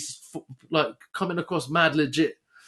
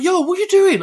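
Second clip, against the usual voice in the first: high, loud demand; mock manager shout; 14 semitones higher, 7 dB louder than usual. Manager confronting him in the cafe, loud. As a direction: call out across the cafe.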